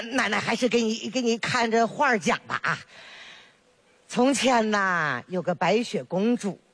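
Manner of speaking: put-on chatty old granny voice, fond and teasing; village grandma. Grandma to her neighbour and baby granddaughter, fondly teasing. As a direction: play a proud grandma showing off her grandchild.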